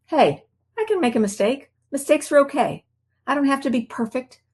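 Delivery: reassuring inner voice. Retold or imitated. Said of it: "has been replaced with".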